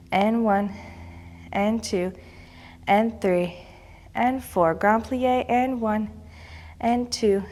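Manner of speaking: slow, even counts with held pauses; stern rhythmic counting. Acted. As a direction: call each count like a ballet teacher. Counts the class through pliés.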